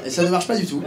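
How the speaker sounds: normal talking voice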